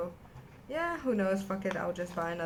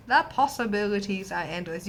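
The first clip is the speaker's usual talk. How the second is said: louder, emphatic proclamation; excited; 7 dB louder than usual. Shown as a demonstration.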